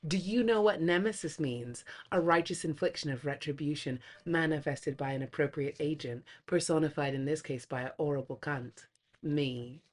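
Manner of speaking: soft, menacing whisper; whispered movie monologue. Retold or imitated. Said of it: "we go with a full-on line".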